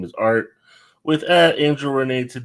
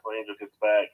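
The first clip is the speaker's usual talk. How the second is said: canyon echo; 4 semitones lower, much faster than usual. Real, not acted. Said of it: "Sorry for the echo".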